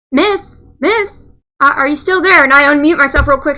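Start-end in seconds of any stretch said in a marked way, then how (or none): 0.1-2.4 imitating caller. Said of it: "he goes".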